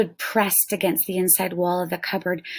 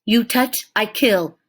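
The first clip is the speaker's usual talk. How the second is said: ferocious growl; 3 semitones higher, 4 dB louder than usual. Acted. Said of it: "the Indian growled ferociously".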